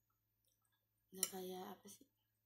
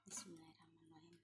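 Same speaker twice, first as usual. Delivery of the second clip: whispered prayer; 3 semitones lower, 5 dB quieter than usual. Real, not acted. Prayer before eating.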